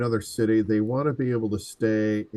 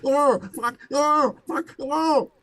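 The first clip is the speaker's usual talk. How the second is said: mock panic; slower than usual. Reacting to raging co-host.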